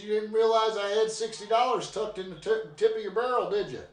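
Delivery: spring the catch on him sweetly; sly grandma. Retold or imitated. Grandma reveals the money to grandpa, sly. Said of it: "She says".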